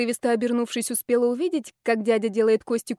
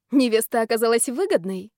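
venomous question. Acted. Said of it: "ядовито спросила я".

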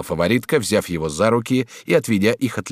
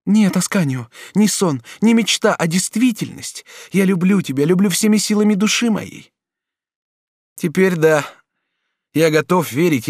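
put-on passionate, higher duchess voice pleading with her young lover; 10 semitones higher, 3 dB louder than usual. A narrator's reading. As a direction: lure him with tender promises. Duchess vows love. (герцогиня страстно уговаривает юношу)

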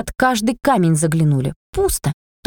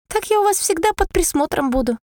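high coaxing house voice; a lightly voiced begging house; pleading house; 9 semitones higher than usual. A narrator's reading. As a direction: coax them sweetly.

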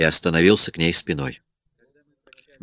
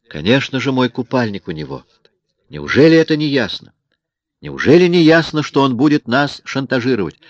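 higher, louder woman demanding answers; agitated woman; 6 semitones higher, 4 dB louder than usual. A narrator's reading. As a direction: she presses him hard, rising to a cry. Woman character voiced, agitated. (взволнованная женщина требует ответа)

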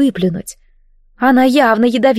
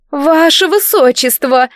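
slow, higher, louder indignant call; indignant outcry; 6 semitones higher, 3 dB louder, slower than usual. Acted. Brides to the prince, indignant outcry. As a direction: brides protesting as one, scandalized. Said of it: "возмутились невесты дружно".

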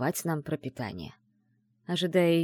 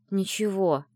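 grumbled reply; 3 semitones higher, slower than usual. Acted. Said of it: "буркнула она".

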